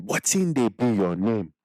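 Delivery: slow Nigerian Pidgin "Wetin dey be your name?" with the accent. Shown as a demonstration. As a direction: repeat it slowly in the accent. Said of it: "So I say it again".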